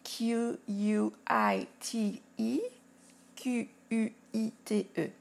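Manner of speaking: letters spelt out slowly, one by one; slow spelling. Shown as a demonstration.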